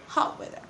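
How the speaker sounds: "hot weather" whispered, T of "hot" cut to a glottal catch; glottal stop in hot. Shown as a demonstration. Teacher modelling the correct dropped T in a whisper. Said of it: "we say".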